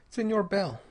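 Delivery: put-on lightly Spanish-accented Señor Bell; Spanish-accented address. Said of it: "he said quietly".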